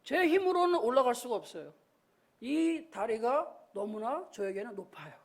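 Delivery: soft, low plea to dad; helpless son pleading. Retold or imitated. Stuck boy asks dad for help, softly pleading. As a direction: quietly beg your father for help. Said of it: "이 아들이 얘기하는 게".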